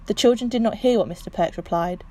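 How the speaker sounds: ordinary delivery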